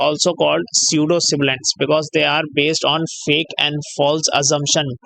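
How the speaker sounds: very slow, word by word, like dictating notes; slow dictation. Acted. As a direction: spell out the term for students to write down. Reads out definition slowly.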